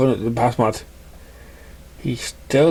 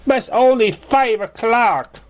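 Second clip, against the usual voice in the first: much higher, slow, puzzled protest; surprised mare voice; 12 semitones higher, slower than usual. Acted. Raindrops protests Cloud leaving early, much higher and slow. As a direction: question why he's leaving so soon.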